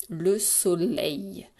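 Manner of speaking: very slow LE SOLEIL, each syllable stretched; sounding out slowly. Shown as a demonstration. Teacher recapping the spelling of SOLEIL, sounding out slowly.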